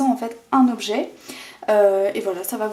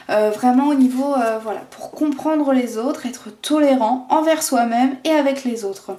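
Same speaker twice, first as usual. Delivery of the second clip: gasping for air. Real, not acted. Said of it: "je suis essoufflée".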